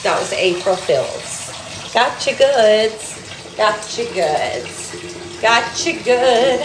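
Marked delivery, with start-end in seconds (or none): 1.9-6.6 slow, drawn-out gotcha; milk each word of the prank reveal; playful drawled tease; teasing taunt. Pretend. Mock taunt after April Fools claim.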